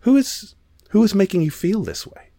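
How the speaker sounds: mock furious performer; indignant demand. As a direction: demand who did this, appalled. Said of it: "And she's like".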